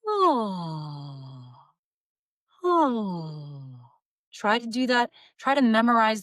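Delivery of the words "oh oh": low, falling yawn-like "oh"; yawny "oh". Shown as a demonstration. Vocal coach leading the yawn exercise, a low yawning "oh". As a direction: drop the back of the tongue into a dopey oh. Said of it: "as if you're about to yawn and go".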